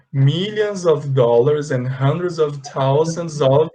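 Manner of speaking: slow careful English read-aloud. Shown as a demonstration. Teacher reading the English sentence slowly to the class. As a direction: read the phrase slowly for learners. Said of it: "é isso aqui tudo".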